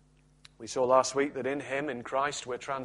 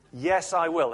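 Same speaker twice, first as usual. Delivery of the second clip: happy yes; 4 semitones higher, 4 dB louder, slower than usual. Retold or imitated. Woman accepts the proposal.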